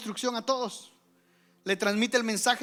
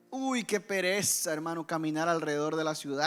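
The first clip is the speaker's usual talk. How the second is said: lazy grumble; 4 semitones lower than usual. Retold or imitated. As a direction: drag the words out like you can't be bothered. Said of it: "cualquier pensamiento pasó por toda la gente". (queja perezosa y lenta)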